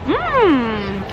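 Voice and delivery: ordinary delivery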